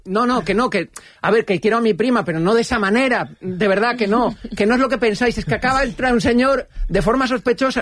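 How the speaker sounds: talking fast to get out of trouble; frantic pleading. Retold or imitated. Pleading with angry groom.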